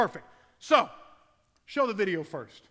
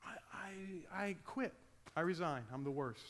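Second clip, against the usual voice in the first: crushed mumble; 12 dB quieter than usual. Retold or imitated.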